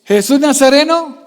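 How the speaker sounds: half-strength imitation of a beggar's shout; Bartimeo's cry. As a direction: quote a cry without fully shouting. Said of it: "le gritaba".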